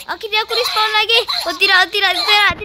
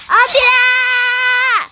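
drawn-out wail; much slower than usual. Real, not acted. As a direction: stretch the no into a long wail. Game character hit again. (erangan panjang yang keras)

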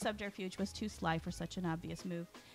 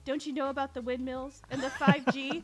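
louder and higher, a frantic rant; ranting conspiracy villain; 6 semitones higher, 7 dB louder than usual. Acted. Villain ranting at the commander, loud and manic. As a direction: shout it like a cackling villain. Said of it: "in a villainous laugh".

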